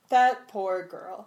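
mock sympathetic. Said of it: "super sympathetic voice".

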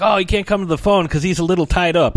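high, sweet fake excuse; sly mock innocence. Booth guy covering for the tied-up host, mock innocent. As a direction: say it with a sneaky grin. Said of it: "He's like".

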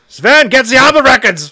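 very high, loud, German-sounding fake Swedish accent; bad Swedish accent. Host admits he can't do Swedish, loud mock German accent. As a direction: bark it in a botched Swedish-turned-German accent. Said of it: "That's more German than Swedish".

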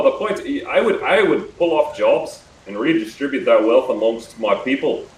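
put-on Australian accent. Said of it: "I'm going back already".

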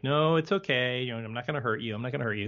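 mildly soothing reassurance; lightly acted voice of reason; imitated calm reasoning. Bruce Willis acting against the panic, calm mild reassurance. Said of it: "to sound calm and reason".

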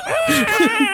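very high screeching monster roar; shrieked imitation of a kaiju; Godzilla roar.

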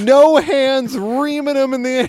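laughing; amused laughing voice. Real, not acted. Describing panel, amused.

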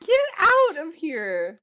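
loud, slow outburst; shouting. Real, not acted. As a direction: bellow it out slowly. Exclaiming at the other host.

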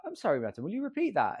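imitated affronted disbelief, rising sharply at the end; taken aback. Pharmacy woman asking customer to repeat, taken aback. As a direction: ask as if you can't believe your ears. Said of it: "genuinely, like, taken aback".

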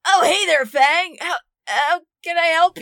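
bright, high, cheerful greeting; cheery Reefy voice. Acted. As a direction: chirp it like an eager host.

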